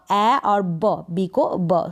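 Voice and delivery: स्लो, ए और ब drawn out slowly piece by piece; teacher breaking स्लो into sounds slowly; slow sounding out. Shown as a demonstration. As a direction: spell it out slowly for the learner. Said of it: "इस तरीके से आप पढ़ें".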